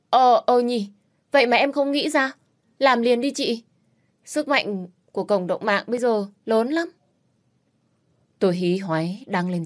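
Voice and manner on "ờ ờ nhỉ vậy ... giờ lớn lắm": excited realization. A narrator's reading. Sister suddenly realizes the idea.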